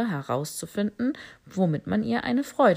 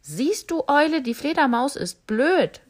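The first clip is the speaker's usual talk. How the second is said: laughing; 8 semitones higher, 6 dB louder than usual. Acted. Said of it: "lachte das Giraffenkalb".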